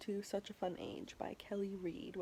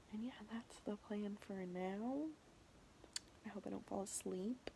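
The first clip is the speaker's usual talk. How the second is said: whispering; 6 dB quieter than usual. Real, not acted. Whispered late-night aside.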